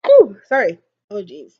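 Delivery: mid-yawn. Real, not acted. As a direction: yawn through the words. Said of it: "I'm yawning a little bit".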